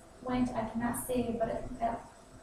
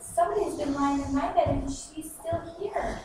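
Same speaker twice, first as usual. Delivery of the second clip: panting little cub crying out, then slowing; a hint of a frightened baby bear; panted cry; 5 semitones higher than usual. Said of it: "he panted and cried".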